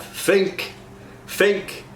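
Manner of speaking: "think" said fink; Cockney fink. Shown as a demonstration. Coach demos TH to F to cast. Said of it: "moves to an F".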